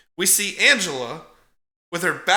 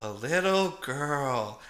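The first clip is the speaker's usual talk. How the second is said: softer, a mild hint of a doting aunt; lightly voiced sweet aunt; 6 dB quieter than usual. Aunt greeting the orphaned boy, a hint of sweetness. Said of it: "And then it's just".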